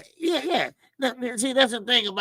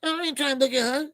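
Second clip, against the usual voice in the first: exasperated protest; 8 semitones higher than usual. Retold or imitated. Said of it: "I'm like".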